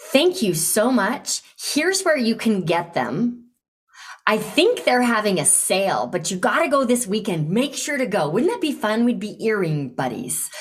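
enthusiastic insistent recommendation; eager, pushy-friendly invitation; passionate, insistent. Shown as a demonstration. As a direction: press a friend to go, with keen enthusiasm. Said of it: "passionate about this invitation, almost insistent".

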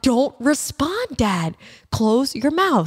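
mock scolding. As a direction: slowly warn your dad off, half-joking. Retells warning dad off greeters.

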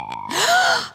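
sharp shocked gasp. Real, not acted. Shocked reaction.

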